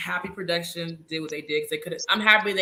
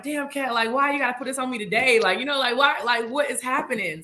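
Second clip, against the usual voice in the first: a lightly voiced, higher, bewildered Marie; imitating Marie; 5 semitones higher than usual. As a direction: play him overwhelmed and confused, a bit higher. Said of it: "He was like".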